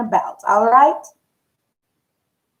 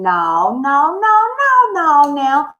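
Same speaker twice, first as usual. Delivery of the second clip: emphatic no; 3 semitones higher, much slower than usual. Real, not acted. Emphatic refusal.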